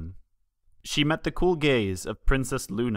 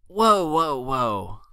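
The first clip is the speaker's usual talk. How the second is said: careful; much slower than usual. A narrator's reading. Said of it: "spoke carefully to the scared little pony".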